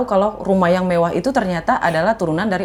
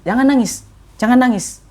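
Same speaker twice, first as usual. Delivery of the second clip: put-on consoling older man; 5 semitones higher than usual. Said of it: "katanya gitu".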